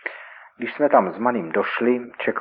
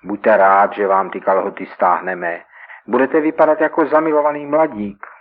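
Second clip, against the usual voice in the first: taunting; 5 dB louder than usual. Acted. Robbers taunt victim.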